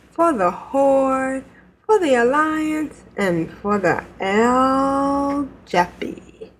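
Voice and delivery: drawn-out battle cry send-off; slow rallying cry. Acted. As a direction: proclaim each phrase slowly.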